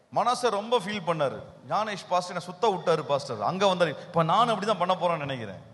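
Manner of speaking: low, softened voice of a listener thinking; imitated inner musing. Preacher voices a listener reflecting on the sermon, low musing. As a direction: muse to yourself, low and subdued.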